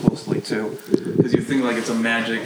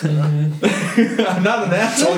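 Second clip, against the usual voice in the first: mocking voice; 9 semitones higher, 4 dB louder, slower than usual. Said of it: "her eyes are like".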